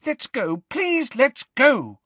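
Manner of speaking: very high, pleading panic; frightened plea climbing in pitch and volume; high-pitched, terrified. A narrator's reading. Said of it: "in a high-pitched and terrified voice".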